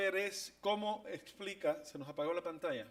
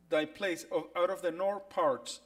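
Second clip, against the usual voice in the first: reading the English verse; 6 dB louder than usual. Shown as a demonstration. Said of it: "donde dice".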